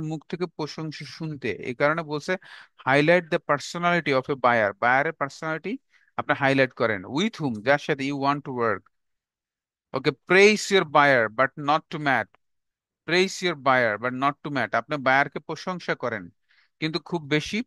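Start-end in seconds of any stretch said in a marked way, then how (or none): 2.9-4.7 slow dictation. Shown as a demonstration. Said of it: "dictating the point slowly". 9.9-12.3 each word spaced out for notes; slow, deliberate dictation for students to copy. Shown as a demonstration. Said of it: "dictating the point slowly". 13.1-14.8 each word spaced out for notes; slow, deliberate dictation for students to copy. Shown as a demonstration. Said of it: "repeated dictation".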